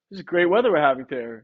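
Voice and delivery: bright, upbeat delivery of the line; upbeat take. Shown as a demonstration. Trainer demos to a homeowner, upbeat and sure. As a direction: sell it as good news. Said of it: "if I say it in two different ways using my tonality".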